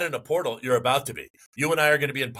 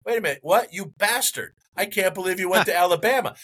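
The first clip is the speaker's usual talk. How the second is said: mock betrayed fan; 5 semitones higher than usual. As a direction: play a fan cursing the coach who left. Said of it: "now we're crying going".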